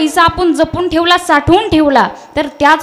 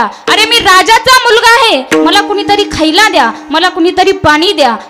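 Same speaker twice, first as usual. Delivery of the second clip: retold crying out. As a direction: call out for help as the starving prince, fading to normal voice. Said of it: "जोरजोरात ओरडायला लागला".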